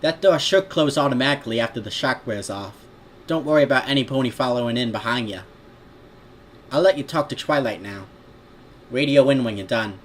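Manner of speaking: lightly put-on Brooklyn-style accent; cartoon city accent, matter-of-fact; Joey Wheeler. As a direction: instruct in a cartoon New York accent. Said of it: "okay, that's Athena".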